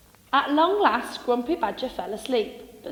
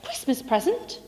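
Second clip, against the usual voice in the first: snorting; 3 semitones higher than usual. Acted. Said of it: "snorted Grumpy Badger".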